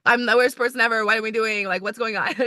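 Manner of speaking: hammed-up self-doubt spiral; mock panic. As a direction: act out your monthly meltdown. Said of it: "I have a monthly one".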